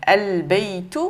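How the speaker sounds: slow "al-baytu" with a clear L; lam prononcé. Shown as a demonstration. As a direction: sound every letter of "al-baytu". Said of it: "on a bien prononcé les lettres". (« al-baytu » lent, L bien prononcé)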